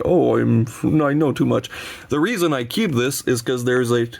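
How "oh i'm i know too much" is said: lightly hammed-up smug sigh of knowing; a hint of mock superiority; mock know-it-all. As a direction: play a snob who knows too much. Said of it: "It's not even me being like".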